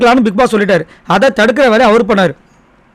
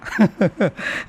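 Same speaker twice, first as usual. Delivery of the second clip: short, soft chuckle; a quiet laugh to himself, trailing down; amused chuckle; 3 semitones lower, 10 dB quieter than usual. Real, not acted. Laughing at the absurd game rule, amused chuckle.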